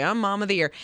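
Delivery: dry, understated sarcasm; sarcastic. Retold or imitated. Host quotes the frazzled mother, lightly sarcastic.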